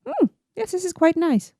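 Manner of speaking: prim, refined tasting voice; posh pinky-out voice. Pretend. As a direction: sip it with your pinky out. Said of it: "With your pinky out".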